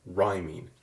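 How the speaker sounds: "rhyming" with the weight on rhym-; stress on first syllable. Shown as a demonstration. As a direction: say "rhyming", first syllable strong, -ing light. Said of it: "you'll hear how the syllable rhyme in rhyming is more stressed".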